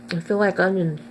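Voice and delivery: talking with a mouthful; mouth full. Real, not acted. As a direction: say it around a bite of food. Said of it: "Talking with my mouth full".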